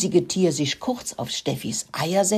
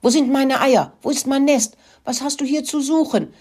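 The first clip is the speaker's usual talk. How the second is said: wild cackling fury; 8 semitones higher, 4 dB louder than usual. A narrator's reading. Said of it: "gackerte sie wild und war ganz außer sich".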